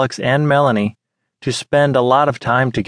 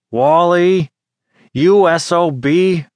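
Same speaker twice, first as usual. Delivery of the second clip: loud and higher, forced through clenched teeth; through gritted teeth; 6 semitones higher, 3 dB louder, slower than usual. Acted. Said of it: "Through gritted teeth, Alex exclaimed".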